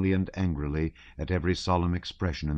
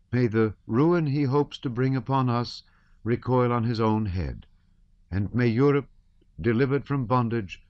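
quivering voice; 6 semitones higher than usual. A narrator's reading. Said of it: "with a quiver in her voice".

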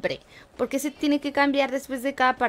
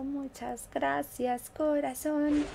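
sweet thanks; 3 semitones higher, 5 dB quieter, much slower than usual. Real, not acted. Thanks a viewer from chat.

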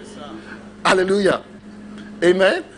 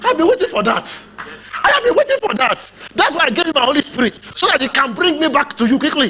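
high, eager father's welcome; 5 semitones higher than usual. Retold or imitated. God welcoming the returning son, eager and high. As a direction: sound like a father who was waiting.

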